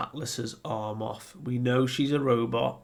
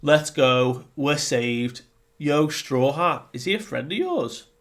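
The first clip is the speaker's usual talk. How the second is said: excited giants; 4 semitones higher, 6 dB louder than usual. Retold or imitated. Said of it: "And the giants are like".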